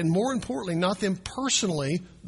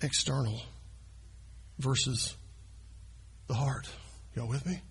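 1 quiet emphasis; 5 semitones lower, 11 dB quieter than usual. Acted. Quiet climax point.

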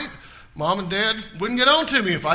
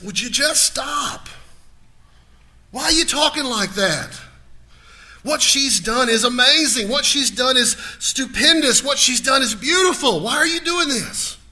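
raised, forceful rebuke, higher and louder; Jesus rebuking loudly; 7 semitones higher, 5 dB louder than usual. Retold or imitated. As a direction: scold them hard, slow and emphatic. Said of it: "He gets onto them and says".

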